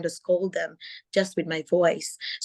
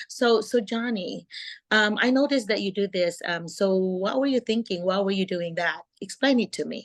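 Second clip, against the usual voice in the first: gently walk a student through what he did; a calm, kind teacher's voice; 2 semitones higher than usual. Shown as a demonstration. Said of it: "very calm voice".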